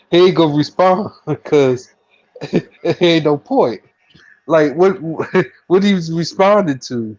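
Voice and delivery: can barely make the point for chuckling; laughing while talking. Real, not acted. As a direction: talk through real chuckles. Laughs through own remark.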